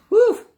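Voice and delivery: big loud whoosh of breath out; loud release exhale. Shown as a demonstration. Demonstrating letting emotion go, loud exhale. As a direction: push the air out hard. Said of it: "releasing it".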